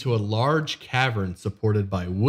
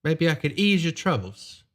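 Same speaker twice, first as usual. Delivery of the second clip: lightly voiced smooth noble; a hint of a polite nobleman; noble's voice; 10 semitones higher than usual.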